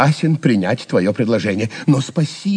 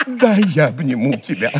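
laughing; 2 semitones higher than usual. Acted. Glad reunion with the jester.

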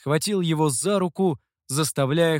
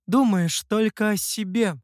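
higher-pitched, scornful aside; pitched-up contempt; dismissive; 6 semitones higher than usual. A narrator's reading. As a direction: add it disdainfully. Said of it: "И пренебрежительно добавила".

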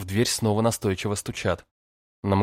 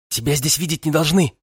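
flustered; 7 semitones higher, 5 dB louder than usual. A narrator's reading. Flustered girl protesting.

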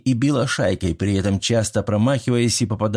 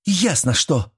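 a higher, sharp hiss; mock hiss; 6 semitones higher, slower than usual. A narrator's reading. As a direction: spit it out angrily. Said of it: "прошипела Мила". (Мила шипит со злостью)

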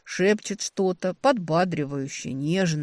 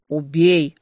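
barked in bass; 8 dB louder than usual. A narrator's reading. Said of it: "рявкала басом".

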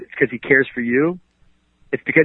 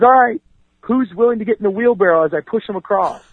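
showman's call; 8 semitones higher than usual. Retold or imitated. Blondin calling to the crowd.

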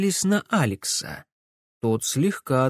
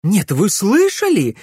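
higher, louder outraged cry; indignant exclamation; 8 semitones higher, 7 dB louder than usual. A narrator's reading. Camilla back to her friends, indignant outburst. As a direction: blurt it out, still fuming. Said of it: "воскликнула она".

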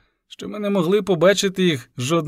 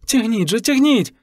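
urgent cry; 7 semitones higher than usual. A narrator's reading. Miss Knowles urges men to pull.

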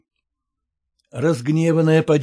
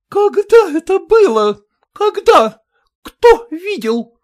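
very high, loud, slow demands; demanding shout; 9 dB louder, slower than usual. A narrator's reading. Maternitskaya demands witnesses, shouting. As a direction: demand proof furiously.

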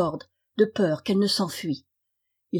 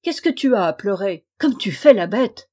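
louder, scolding bellow from the window; angry father yelling; 5 dB louder than usual. Acted. Wicked king scolds his wailing son from the window, louder. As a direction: yell down at the crying son. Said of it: "lui cria".

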